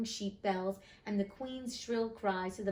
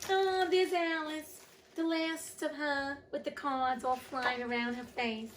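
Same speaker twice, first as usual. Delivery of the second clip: real choked-up tenderness, voice pitched up; close to tears; 6 semitones higher than usual. Real, not acted. Reader moved by the story's last picture, near tears. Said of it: "I'm gonna start crying".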